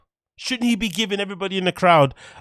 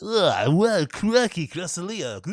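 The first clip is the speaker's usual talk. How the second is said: mock comedian questioning crowd; 3 semitones higher, slower than usual. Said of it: "he's asking you questions".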